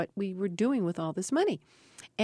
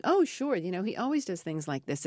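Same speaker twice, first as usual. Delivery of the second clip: feigned nonchalance. Retold or imitated. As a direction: act casually as if it's routine. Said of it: "trying to make it look like".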